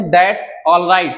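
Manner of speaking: slow demo. Shown as a demonstration. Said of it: "तो आप बोल सकते हैं".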